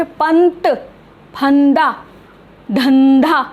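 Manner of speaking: पंत, फंदा, धंधा with a dental n; careful, spaced पंत, फंदा, धंधा; pronunciation demo. Shown as a demonstration. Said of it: "उच्चारण स्थान में फ़र्क आ रहा".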